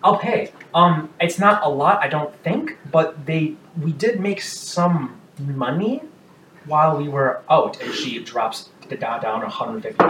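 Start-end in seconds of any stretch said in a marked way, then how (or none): 0.0-7.8 eager offer. Acted. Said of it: "she says".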